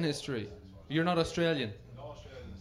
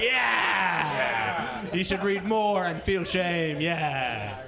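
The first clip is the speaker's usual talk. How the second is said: mock Irish heckle; 3 dB louder, much slower than usual. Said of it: "They're like".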